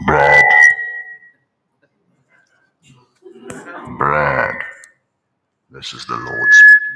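low, loud, thundering voice from above; mock a movie-style voice of God; booming God voice. Preacher mocks how people expect the Lord to call, booming low. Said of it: "wait to hear the voice of the Lord like this".

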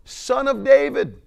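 high, loud desperate plea. Retold or imitated. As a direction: shout over those telling him to hush. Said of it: "cried out all the more".

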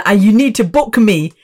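imitating mother in an Indian accent; mock Indian accent. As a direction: play mum with a put-on Indian accent. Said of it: "I just like to do the Indian accent".

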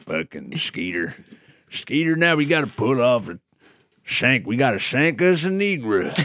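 lightly voiced hillbilly; redneck voice. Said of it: "you're doing this voice".

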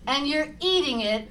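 slow singsong airplane feeding voice; airplane spoon game. Acted. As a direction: play airplane with the spoon, teasing. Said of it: "Here comes the airplane".

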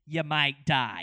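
loud announcer warning; ominous ride announcer; spooky ride narrator. Retold or imitated.

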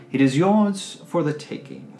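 slow, lightly voiced dwarf offering the gold; grand old dwarf. Ancient dwarf to the lady, slow grand offer. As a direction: present the hoard with a flourish. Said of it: "He says".

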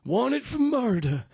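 high, slow dramatic announcer; mock wanted-poster announcer. Joking about murder, slow high announcer voice. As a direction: intone it like a movie trailer.

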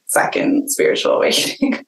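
breaking into a real giggle; trailing off in breathy laughter; laughing through it. Real, not acted. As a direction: let the words dissolve into laughter. Laughs while finishing the story.

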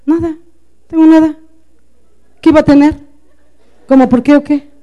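respuestas molestas y algo agudas, a la defensiva; enojo negado a gritos. Acted. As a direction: niega el enojo con irritación actuada. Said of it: "le estás diciendo a gritos que estás". (enojo fingido, a la defensiva)

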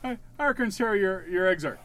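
mock accent drifting toward Irish; Irish-tinged accent. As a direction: try a wobbly Irish-ish accent. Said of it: "back into the Irish there".

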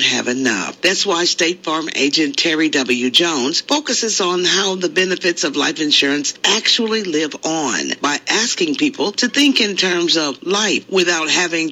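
polished sponsor-message delivery; scripted commercial read with emphatic phrasing; radio ad read. Real, not acted. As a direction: read the insurance spot to listeners. Reads sponsor ad on air.

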